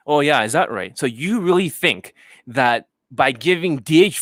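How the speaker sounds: sarcastic coach tearing into a student; a hint of a high mocking rant; Johnny Elite impression. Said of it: "that sounds like Johnny Elite".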